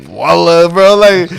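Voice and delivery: high, loud incredulous echo; retold disbelief. Arabic speakers questioning his oath, mock incredulous. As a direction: throw WALLAH back loudly, as if doubting it. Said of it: "And they're like".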